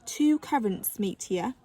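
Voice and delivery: slow, precise and proper; prim. Acted. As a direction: say it like a know-it-all. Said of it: "replied Iris primly".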